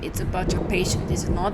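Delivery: put-on loose, amateur German accent; attempted German accent. Visitor questioning the doctor, rough German accent. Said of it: "don't know how to do a German accent".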